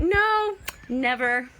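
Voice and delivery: loud, high mock refusal; sarcastic. Answering whether building will ever start, loudly sarcastic. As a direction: blurt it as an over-the-top sarcastic denial. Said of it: "No, I'm being sarcastic".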